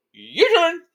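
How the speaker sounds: high, loud dragon taunt; menacing dragon. Acted. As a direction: dare them, big and loud. Dragon threatens the two knights.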